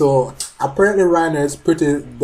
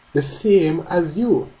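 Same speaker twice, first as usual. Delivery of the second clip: slow, weighty delivery of The same as you with a falling end on you; slow dramatic reread; 4 semitones higher, slower than usual. Shown as a demonstration. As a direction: drag out The same as you like a calm threat. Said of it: "So let me go over that again".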